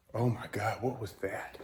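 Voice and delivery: very quiet, hushed, startled fear. Alone at 5 a.m. when a stack of parts suddenly falls, startled and scared. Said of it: "Did you see my fear?".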